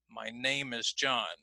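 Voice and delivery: "name" and "John" clear and strong, "My" and "is" reduced to quick weak syllables, a bit slow; stress on name and John. Shown as a demonstration. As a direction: lean on "name" and "John", swallow "My" and "is". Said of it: "my and is now are going to be reduced".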